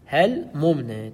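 هل ممن slowly as "hel; demonstrated vowelless lam. Shown as a demonstration. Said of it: "تقول هكذا".

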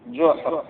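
جحر with short u on jim, no vowel on ha; damma then sukun. Shown as a demonstration. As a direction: say جحر as one syllable, juhr. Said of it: "بالضم فالسكون".

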